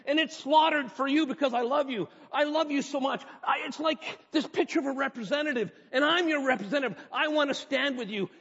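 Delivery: high, loud, impassioned declaration of love; voicing Jesus. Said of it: "Jesus is saying".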